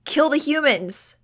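high, slow, loud yell. A narrator's reading. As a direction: yell it out like a crazed war cry. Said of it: "Iggy yelled".

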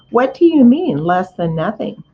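a touch of hurt surprise; indignant piglet. Acted.

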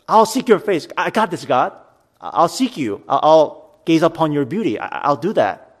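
a light, imitated swagger of confidence; confident. Pastor voicing David's confident prayer, mild swagger. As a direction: voice David as sure of himself. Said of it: "he sounds confident".

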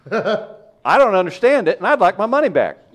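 loud, exaggerated complaining persona; mock redneck rant. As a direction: rant like an angry caller.

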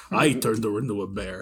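lightly put-on Russian accent. Joking as the spell's caster, mock Russian accent. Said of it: "when you do a Russian accent".

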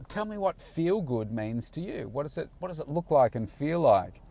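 upbeat coaching. Retold or imitated. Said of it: "So I said".

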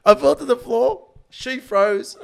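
high, loud, laughing insults; loud mock rant. Real, not acted. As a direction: shout him down, half joking. Shouting defence at friend.

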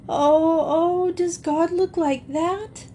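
high-pitched wailing question, rising at the end; tearful wail. A narrator's reading. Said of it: "she wailed".

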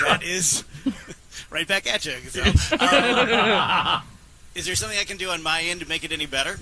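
far-off, hollow phone line; echoing tunnel. Real, not acted. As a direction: sound like you're calling from a tunnel. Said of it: "you sound like you're in a can".

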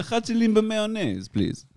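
Hebrew phrase chatzilim b'mayonnaise, said slowly and high; switching languages midsentence. Pretend. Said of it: "How do you say that in Hebrew?".

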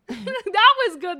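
high, slow, laughing praise. Real, not acted. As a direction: squeal it out through laughter.

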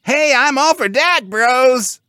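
very high, loud eager pig; overexcited cartoon pig bro; excited pig. A narrator's reading. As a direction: squeal your agreement excitedly. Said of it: "agreed Bob Red excitedly".

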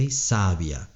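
"sabia" said SA-bia, stress on the first syllable; no stress on the i of "sabia", keep it gliding; "sabia" as SA-bia, correcting the answer; sabia without accent. Shown as a demonstration. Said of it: "sin acento".

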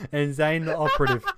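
words breaking into laughter; laughing. Real, not acted. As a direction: giggle through the name. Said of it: "repeat through laughter".

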